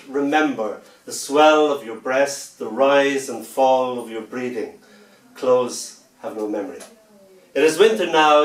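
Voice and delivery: slow, sensual spoken-word reading; poem recital. Acted. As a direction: linger over each line like a love poem. Recites poem Clothes Have No Memory.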